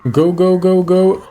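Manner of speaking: tense high-pitched egging on; urgent urging. Real, not acted. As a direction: push them on urgently. Urging character onward in game.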